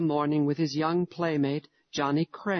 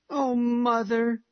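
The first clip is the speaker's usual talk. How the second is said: insisting; 9 semitones higher, slower than usual. A narrator's reading. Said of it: "insisted the little fellow".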